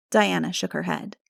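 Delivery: normal talking voice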